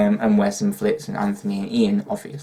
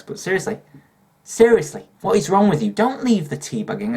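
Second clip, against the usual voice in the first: mock-furious rant about tea bags; yelling; 10 semitones higher than usual. Real, not acted. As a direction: shout it at the whole country. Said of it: "yelling about tea bags".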